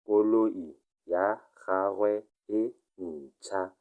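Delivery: slow, careful model reading; slow repeat. Shown as a demonstration. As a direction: spell out Koloi ya gagwe e ntšha word by word for learners. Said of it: "teacher repeats it slowly".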